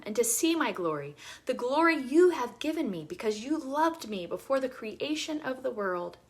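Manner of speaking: measured Bible reading voice; scripture reading. Acted. Reading Jesus' prayer from John aloud, reverent. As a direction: read the passage steadily and reverently.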